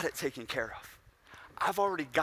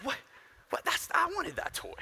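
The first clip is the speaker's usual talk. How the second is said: put-on much higher, pouty little-kid voice; whiny six-year-old; 13 semitones higher, 4 dB quieter than usual. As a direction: whine like a kid denied his toy. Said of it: "Imagine six-year-old Nick".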